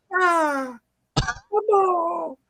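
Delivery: put-on high, tearful little girl's voice; child sulkily giving in; sniffling child. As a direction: agree between sobs like a small girl.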